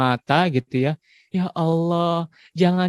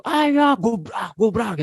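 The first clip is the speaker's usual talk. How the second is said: playful; 7 semitones higher, much slower than usual. Retold or imitated. Playful roughhousing with kids.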